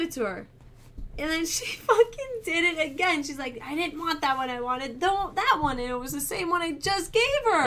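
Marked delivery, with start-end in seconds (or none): 3.6-5.8 higher, mock-petulant toddler demand; insistent child. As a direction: lightly imitate a fussy kid insisting.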